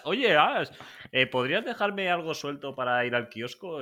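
high, loud little creature voice asking for coins; Bulbasur begging. Pretend. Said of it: "¿Tú ves a Bulbasur pidiéndole dinero a Ash?". (Bulbasur suplicando, voz aguda y fuerte)

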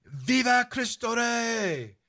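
high, slow, drawn-out war cry; battle cry yell. Retold or imitated. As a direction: call it out like riders charging in. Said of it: "the Cristeros would yell out".

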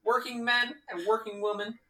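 Soviet speech. Acted. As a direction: address the troops like Stalin. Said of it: "my favorite presidential joke".

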